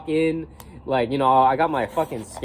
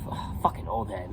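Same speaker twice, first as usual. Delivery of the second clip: low, soft imitated mutter; under his breath; 4 semitones lower, 9 dB quieter than usual. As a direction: mimic a guy grumbling under his breath. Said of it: "like, under his breath".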